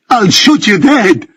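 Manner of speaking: high, slow, raging threat; furious scream. A narrator's reading. Benjamin screaming a death threat at Ricky. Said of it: "screams Benjamin".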